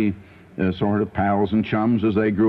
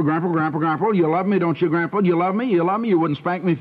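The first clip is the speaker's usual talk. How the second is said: pleading grandson; 5 semitones higher, faster than usual. Retold or imitated. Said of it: "The way he said it".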